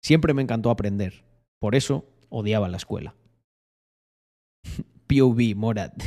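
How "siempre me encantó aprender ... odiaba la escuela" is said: restrained announcer read; low-key, lightly voiced announcer; locutor voice. Shown as a demonstration. Streamer shows how the clip would sound, locutor voice. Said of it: "pero sería algo así como".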